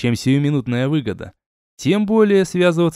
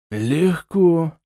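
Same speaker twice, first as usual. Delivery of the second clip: lightly cheerful, higher-pitched reply; 4 semitones higher than usual. A narrator's reading. Count readily agrees to the outing, cheerful. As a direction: answer breezily, in a raised voice. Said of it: "весело сказал граф".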